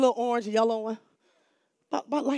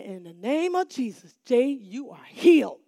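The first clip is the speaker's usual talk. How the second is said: bold proclamation; 7 dB louder than usual. Retold or imitated. Proclaiming healing over the boy.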